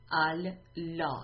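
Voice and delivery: ال لا slowly split into two parts, "al" then "lā"; slow, deliberate ال لا broken in two; split word. Shown as a demonstration. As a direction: say ال, then a drawn-out لا, as separate pieces.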